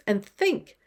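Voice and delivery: ordinary talk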